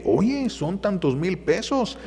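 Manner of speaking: the host pressing the couple with cash; insisting offer. Retold or imitated. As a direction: stretch the offer out temptingly. Man insisting on the money.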